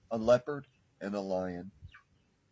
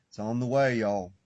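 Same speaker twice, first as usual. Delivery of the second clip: louder, pushing it out to the listeners; a raised, insistent reassurance; emphatic promise; 6 dB louder than usual. Real, not acted. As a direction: announce it firmly, voice raised. Repeats promise, loud then hushed.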